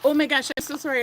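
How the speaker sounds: a little choked after a bug; just swallowed a bug. Real, not acted. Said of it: "I swallowed a bug a little bit".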